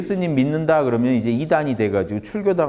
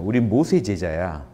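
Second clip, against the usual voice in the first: smug line drawing; 4 semitones lower than usual. Retold or imitated. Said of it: "이런 말도 재밌죠".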